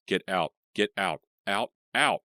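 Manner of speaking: loud frantic get out; screaming. A narrator's reading. Leah fights off Catherine's possession, loud scream. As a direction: drive the ghost out with a yell. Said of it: "she screamed".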